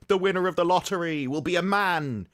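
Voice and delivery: mock-portentous prediction, slowing to the punchline; Septic Peg. Comedian spoofing a lottery psychic, mock-portentous. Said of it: "he'd be like".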